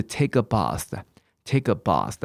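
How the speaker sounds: "bath" with a long open ah, "bahth"; British pronunciation. Shown as a demonstration. Teacher teaching taking a bath in British English, long-ah "bath". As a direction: slowly model "take a bath" with British ah in "bath". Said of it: "那英国人是念bathroom".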